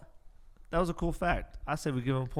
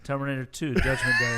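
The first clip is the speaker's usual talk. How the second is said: triumphant shout; 5 dB louder than usual. Real, not acted. Player shouts the right answer.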